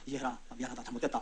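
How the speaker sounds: retold weeping apology, hushed and low; tearful apology. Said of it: "이러면서 울었죠".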